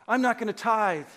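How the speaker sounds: loud, huffy refusal to give; a member threatening the pastor, loudly indignant; mock annoyed giver. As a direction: play the miffed member holding back money. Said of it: "Or they'll say".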